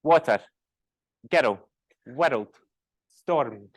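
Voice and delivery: "Water", "Ghetto", "World", "Storm" with strong R adding a syllable; strong Scottish R. Shown as a demonstration. Teacher listing examples, "World" and "Storm" with forceful Scottish R. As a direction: hit every R in "World" and "Storm", adding a beat. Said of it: "R sounds are forcing me".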